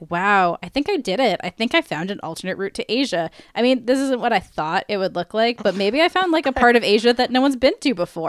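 lightly voiced explorer musing to himself; a hint of wide-eyed discovery; Christopher Columbus inner monologue. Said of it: "your inner monologue for Christopher Columbus".

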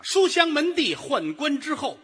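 high, ringing, drawn-out boast; pompous proclamation. Acted. Partner extols the wife's noble pedigree, pompous proclamation. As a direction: proclaim it grandly, slowing on the last phrase.

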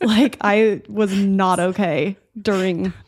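laughing through the painful memory; pained laughter. Real, not acted. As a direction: let a rueful laugh creep into the words. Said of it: "I'm laughing because it was that bad".

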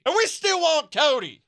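high, loud hillbilly holler; hammed-up country fan; mock redneck fan. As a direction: play the rowdy Southern fan. Joining the redneck fan bit.

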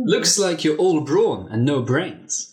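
a hint of a scheming seductress; Helga, sly and mocking. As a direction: tease him with slow scorn. Helga speaks to Byron.

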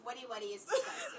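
laughing disgust. Real, not acted. Mocking the lyric, laughing.

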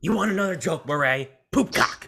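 high, teasing villain with a pause before the punchline; Joker voice. Acted. Podcaster as Joker taunting a talk-show host, hammed-up Joker. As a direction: pitch up the final word as a mock reveal. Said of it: "my Joker voice is better".

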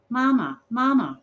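high, loud doll wail, falling each time; crying doll. A narrator's reading. Doll in rough hands calls out, crying. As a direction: cry out like a doll begging for rescue. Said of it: "cried Antoinette".

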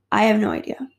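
breathy whisper of not knowing; whispered aside. Real, not acted. Wondering if he set her up, whispered. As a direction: drop to a whisper, baffled.

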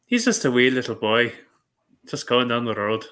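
light put-on Irish accent; Irish lilt, lightly done. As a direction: imitate the film's Irish speech. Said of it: "just the Irish accent and how they said".

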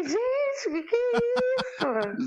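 high, slow, laughing disbelief; shocked. Retold or imitated. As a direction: squeal it out in embarrassed shock. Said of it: "Eu fiquei". (chocada e rindo)

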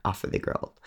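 plain reading voice

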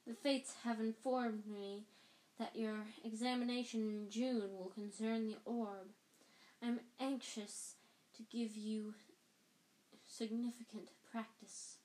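slow, airy mystic voice; a touch of breathy hush; misty Trelawney. Acted. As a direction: speak like a seer in a trance. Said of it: "familiar misty voice".

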